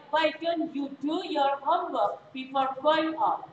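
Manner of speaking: slow, careful English sentence; slow model reading. Shown as a demonstration. Teacher reads the model sentence slowly to the class. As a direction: read it slowly so students can copy. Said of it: "you-nya kurang U ya".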